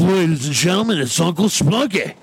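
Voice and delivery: high-pitched announcer introduction; show intro. Acted. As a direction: introduce the guest like a ring announcer. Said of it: "make a quick intro right now".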